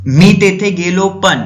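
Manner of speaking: loud, slow, stopping short on पण; broken-off sentence. Shown as a demonstration. Teacher showing a thought that breaks off, loud and slow. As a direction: start strong, then cut off at पण. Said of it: "अब उसके आगे अपन बताए नहीं, रुक गए".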